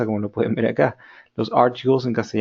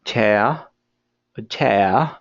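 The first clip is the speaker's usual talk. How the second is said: British chair; much slower than usual. Shown as a demonstration. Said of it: "Los británicos dirían chair".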